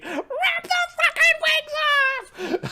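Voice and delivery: very high, drawn-out heckling screech; bloodthirsty old lady. Acted. Bloodthirsty old lady heckles from the crowd, screeching. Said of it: "that bloodthirsty old lady".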